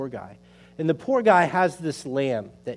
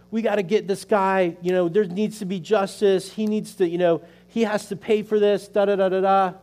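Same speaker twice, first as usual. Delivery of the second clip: lightly acted outrage, pitched higher; mock indignant; 4 semitones higher than usual. King David hears of the stolen lamb, mock indignant. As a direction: imitate someone worked up, higher but not shouting. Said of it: "He's so angry. He's like".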